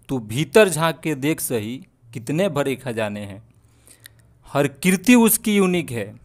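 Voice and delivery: slow, measured verse with drawn-out line endings; Hindi poem recitation. Acted. Poet sharing a motivational verse with viewers, slow rhythmic recitation.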